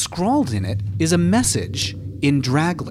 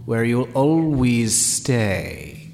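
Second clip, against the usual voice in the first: luring voice. Acted. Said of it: "the voice says".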